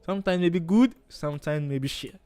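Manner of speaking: same line, now straight-faced; trying to be serious. Shown as a demonstration. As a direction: say it seriously this time. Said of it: "I wanted to be serious".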